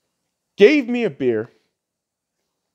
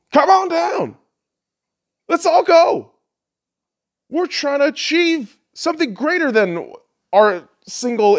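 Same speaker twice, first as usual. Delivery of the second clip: imitating Trump; 5 semitones higher than usual. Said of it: "he's like".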